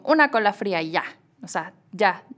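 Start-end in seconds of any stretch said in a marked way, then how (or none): 0.0-0.8 curt, plain "Una cola fría"; just state it, no niceties; blunt Spanish order. Retold or imitated. Spanish customer ordering, short and blunt. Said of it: "la persona al lado de mí que era española llegaba y decía solo como".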